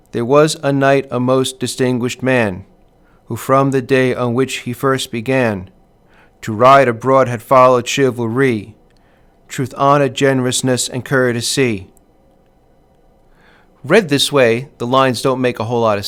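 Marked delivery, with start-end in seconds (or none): 0.1-11.9 overstressed sing-song, pausing at every line end; sing-song reading. Shown as a demonstration. Teacher mocking a poor reader's sing-song recital. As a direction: chant the verse like an inexperienced reader. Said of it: "read like this".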